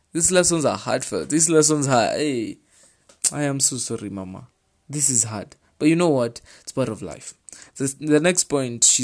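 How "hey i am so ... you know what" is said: ordinary talk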